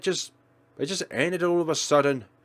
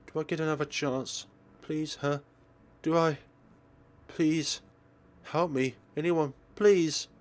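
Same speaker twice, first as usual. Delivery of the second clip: a touch of panicked pleading; lightly voiced desperate heroine; 3 dB quieter than usual. The heroine begging anyone to help her, mildly frantic. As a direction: beg for help with mild desperation.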